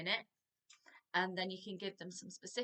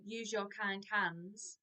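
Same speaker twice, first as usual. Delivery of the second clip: gentle instruction; slower than usual. Shown as a demonstration. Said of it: "you can say".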